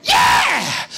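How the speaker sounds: high, shouted fan whoop; imitating an excited old grandma at a game; cheering grandma. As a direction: leap into a big high cheer. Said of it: "that old grandma stood up and went".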